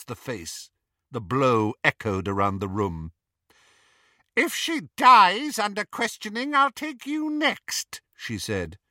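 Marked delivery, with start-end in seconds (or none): 4.3-8.0 high-pitched, vicious threat; menacing threat. A narrator's reading. Bellatrix threatening Ron after striking him, high menace.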